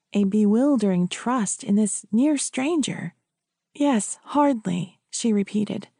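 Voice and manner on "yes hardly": slow "hardly", weight on HARD; stress on first syllable. A narrator's reading. Widow repeating herself to priest, stressing HARD in "hardly". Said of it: "emphasizing the first syllable of the word".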